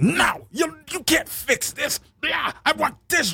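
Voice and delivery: high whiny little girl, imitated; mock a bratty girl whining at mom. Girl whining to her mom about a dress, high and whiny. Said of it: "She's like".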